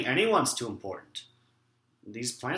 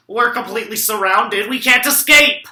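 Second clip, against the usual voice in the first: panicked cry; 6 semitones higher, 6 dB louder than usual. Acted. Boy panics as the plants close in.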